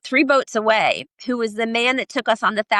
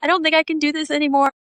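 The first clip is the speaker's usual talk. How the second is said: tearing up; 8 semitones higher than usual. Retold or imitated. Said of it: "like, tearing up".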